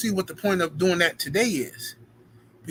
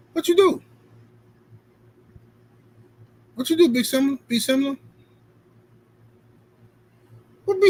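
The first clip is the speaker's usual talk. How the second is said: baffled high protest; 7 semitones higher, faster than usual. Real, not acted. Streamer baffled by a chatter's apology, high incredulous protest.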